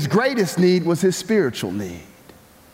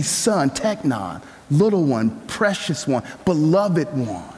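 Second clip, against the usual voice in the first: tender; 2 semitones lower than usual. Acted. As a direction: say it with great love and affection. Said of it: "a term of great love and affection".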